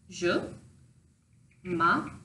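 "je" then "m'appelle" said apart; broken into parts. Shown as a demonstration. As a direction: pause between "je" and "m'appelle". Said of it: "phonetically pronounced".

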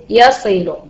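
very slow, drawn-out مثل يصل to show syllables; slow syllable demo. Shown as a demonstration. Teacher showing students the syllables of يصل, very slow. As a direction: stretch each syllable of يصل slowly. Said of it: "يعتبر مقطعًا صوتيا واحدا".

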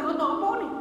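mock startled question. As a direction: ask it taken aback, voice lifted. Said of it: "terkejut kawan ni".

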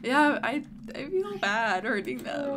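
loud. Real, not acted. Sudden loud guilty outburst.

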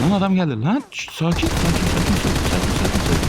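frantic mock soothing "sakin, sakin"; excited taunting. Real, not acted. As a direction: hype yourself mid-fight. Excited fight with opponent.

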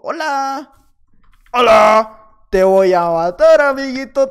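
loud, slow, playful menace; taunting threat. Acted. Gamer taunting an opponent he is about to kill, loud slow menace. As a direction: greet him loud and slow like a bully. Taunting enemy player before attack.

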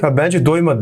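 retelling a smug chuckling jibe; a hint of snickering teasing; mock snicker. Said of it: "Kıs kıs gülerek". (hafif kıs kıs gülerek alaycı)

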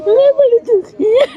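loud, high-pitched tearful wail; real sobbing. Real, not acted. Grandmother pouring out her sorrow to the carer, sobbing. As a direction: cry the words out, overcome with grief. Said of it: "ਰੋਣਾ ਨਹੀਂ ਮੇਰੀ ਮਾਂ".

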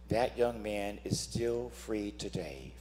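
slow, hushed whispered reveal. Real, not acted. Preacher confiding to the beloved congregation, slow whisper. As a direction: lean in and share the secret softly.

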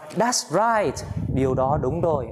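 high-pitched, drawn-out approving reply; emphatic approval. Acted. Acted reply quoting the idiom.

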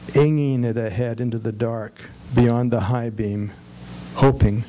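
measured poem recital with pauses between lines; poetry reading. Acted. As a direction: read each short line deliberately, letting it fall at the end. Reads a poem aloud to an audience.

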